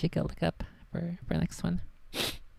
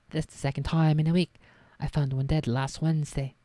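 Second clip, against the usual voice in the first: a hint of Hagrid's rural accent, louder; lightly voiced Hagrid; 5 dB louder than usual. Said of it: "That's not the Hagrid accent".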